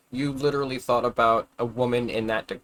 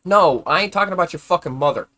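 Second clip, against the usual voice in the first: exasperated shout; 5 semitones higher, 8 dB louder than usual. Real, not acted. Shouting back at chat comment.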